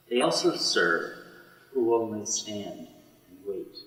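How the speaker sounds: slow, measured recital of a Milton sonnet; poem recital. Acted. Teacher reading a Milton sonnet to the class, slow and measured. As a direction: let each line land, unhurried and solemn.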